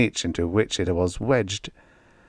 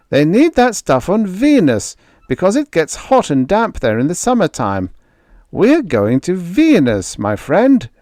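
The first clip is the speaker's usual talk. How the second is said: big loud blond spacer, higher and booming; jovial giant shouting introductions; hearty sailor Moore; 10 semitones higher, 5 dB louder than usual. A narrator's reading. Crewman greets groggy Greg, hearty and loud.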